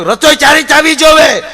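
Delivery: the husband's stern warning to his new bride; mock stern warning. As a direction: bark it like a strict new husband. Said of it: "મારે કહેવાય ગયેલો".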